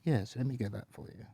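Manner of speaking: lightly voiced posh British host; courteous posh British service; Grim. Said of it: "He's very posh British".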